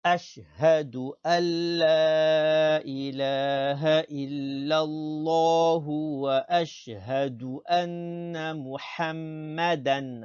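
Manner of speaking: long-held vowels intoned on one breath; continuous recitation. Shown as a demonstration. Teacher reading the whole testimony for pupils, unbroken chanted recitation. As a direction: chant it through without stopping, level and sustained. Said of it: "Encore une fois".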